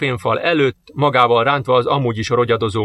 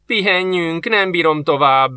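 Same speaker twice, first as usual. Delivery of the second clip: panting; 5 semitones higher, slower than usual. Acted.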